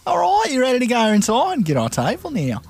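playing Bendy. Plays Bendy on the date.

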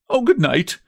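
put-on embarrassed boy blurting a farewell; bursting out. A narrator's reading. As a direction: blurt it out as you flee. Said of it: "burst from the boy as he fled away".

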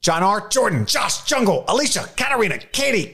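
sounding mad. Acted. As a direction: snap out each name like a roll call. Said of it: "I sound like I'm mad at them".

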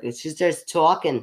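New York till lady voice; exaggerated New York drawl on talking; New York accent. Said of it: "when I impersonate".

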